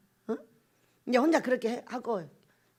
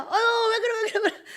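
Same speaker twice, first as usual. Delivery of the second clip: high-pitched, fussing reassurance; mock soothing; 8 semitones higher, 3 dB louder than usual. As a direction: fuss over someone upset, acted out. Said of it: "하고 위로해주고 보냈더니".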